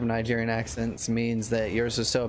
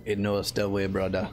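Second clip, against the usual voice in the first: meme voice; 4 semitones lower than usual. Acted. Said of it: "inject some more memes".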